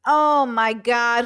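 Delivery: drawn-out, exasperated oh my God; slow disbelief. Real, not acted. Streamer reacting in disbelief to the clip, drawn out. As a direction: stretch it out, stunned at what he hears. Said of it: "exasperated reaction".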